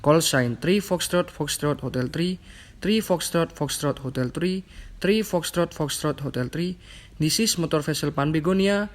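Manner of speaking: radio call, clear and measured; formal VHF radio call; over a radio. Shown as a demonstration. Radio call demo video.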